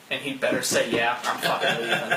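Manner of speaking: laughing through the words; giggling while joking. Real, not acted. Laughing while joking about leaving.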